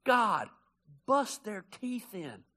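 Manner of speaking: slow, deliberate mild menace; mock angry prayer. David praying against his enemies, slow mild menace. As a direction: drag it out with a touch of grit. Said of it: "This is what he prayed".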